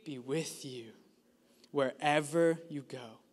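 whispered, low promise; hushed whisper of reassurance; soft whisper. Acted. Verse ending answered in a hush.

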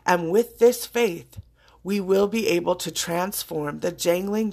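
reading a famous speech aloud, measured; quoting a speech. Acted. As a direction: recite the words with reverence. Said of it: "and I quote".

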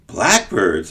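mild surprise on Blackbirds, falling; surprised echo. Acted. Servant echoes the boy's answer, mildly surprised. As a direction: echo Blackbirds, a touch taken aback. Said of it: "echoed the servant in surprise".

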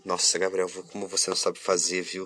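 lightly voiced grandma telling him he's useless; imitating grandma scolding. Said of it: "minha avó falou pra mim".

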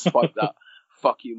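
loud mock shout, laughing through it; retold shout. Drummer slamming the drum down, loud mock shout. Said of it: "and he shouts".

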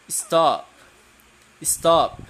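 firm model word. Shown as a demonstration. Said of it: "Não estou ouvindo vocês repetirem".

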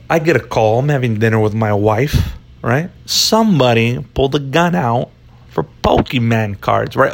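put-on light Italian Chicago detective accent; mild Italian Chicago cop, telling the story. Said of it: "I'm an Italian Chicagoan".

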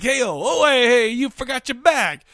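acted shout down the street; calling out. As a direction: holler to someone getting away. Calling after a fleeing woman.

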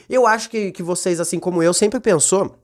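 ordinary talk, nothing marked

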